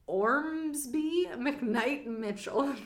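each name drawn out slowly; slow and grand. Real, not acted. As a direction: savor the name Ormsby McKnight Mitchell.

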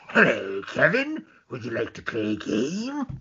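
creepy drawn-out phone caller; lilting horror-movie killer voice; Ghostface voice. Pretend. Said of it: "Ghostface voice".

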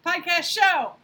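high, loud cheer of the show name; shouted catchphrase. Acted. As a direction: yell it like a hype chant.

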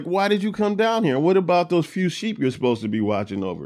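older brother lightly mocking David. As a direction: tease him like a little kid. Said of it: "he's kind of mocking his brother".

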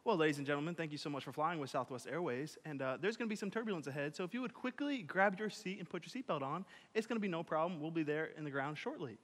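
mock calm announcement voice; soothing airline announcer, softly; soft, calm intercom voice; calm flight attendant. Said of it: "they'll get on quietly and calmly".

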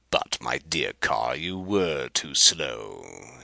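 slow taunt. Acted. Rapaju taunting Kar.

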